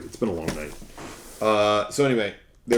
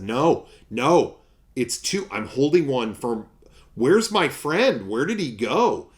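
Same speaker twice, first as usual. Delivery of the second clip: high, loud, hammed-up fake confusion; mock bewildered looking around, pitch jumping up high; faked innocence; 5 semitones higher, 6 dB louder than usual. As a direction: play dumb about the missing friend. Faking a missing friend.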